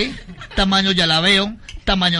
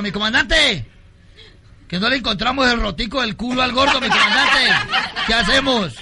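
lightly voiced guerrilla soldier; 4 semitones higher than usual. Soldier to his commander, raised nervous report. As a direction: report the problem to your boss.

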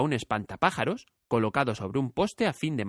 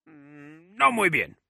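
higher scarecrow, a wry smile; smiling scarecrow; 4 semitones higher, 3 dB louder, much slower than usual. A narrator's reading. Scarecrow tells Dorothy he's not well, smiling. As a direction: grin through the complaint. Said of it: "sonrió el espantapájaros".

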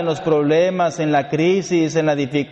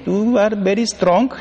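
laughing compliment; 3 semitones higher than usual. Retold or imitated. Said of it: "le dije".

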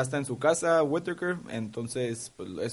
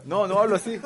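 put-on Spanish accent; 6 semitones higher than usual. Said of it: "Ves que lo hace? El acento español".

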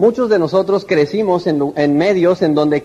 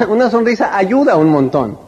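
smiling laugh. Shown as a demonstration.

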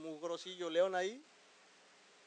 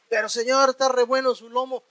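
higher and louder pleading lion; hungry lion begging its master, higher voice; whining lion; 7 semitones higher, 11 dB louder than usual. Acted. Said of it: "lion pleads to eat Daniel".

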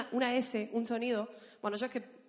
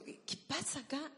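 softer, higher Argentine aside; Argentine accent; 4 semitones higher, 5 dB quieter than usual. Retold or imitated. Asking her husband at the airport, Argentine accent. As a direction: ask it in a retold Argentine lilt. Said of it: "somos muy exagerados para hablar".

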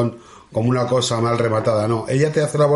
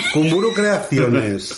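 laughing repeat; 3 semitones higher, much slower than usual. Shown as a demonstration. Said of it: "No, Kumburu Creaciones".

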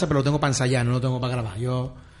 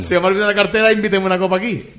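mock Sevillian; 2 semitones higher, 5 dB louder, faster than usual. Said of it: "en sevillano".

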